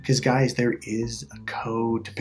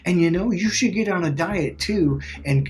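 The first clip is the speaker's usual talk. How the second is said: higher-pitched, tactless announcement; blurting out; 6 semitones higher than usual. Retold or imitated. Tom to Sally before the whole room, blurting it out. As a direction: imitate a man blurting advice across a room. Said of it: "So Tom blurts out in front of everybody".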